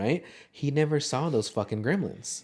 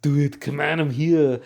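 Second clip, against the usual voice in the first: louder Arnold action-hero growl; Predator Arnold; 4 semitones higher, 6 dB louder than usual. Pretend. Arnold in Predator taunting the monster, loud. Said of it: "I always resort to fucking Predator".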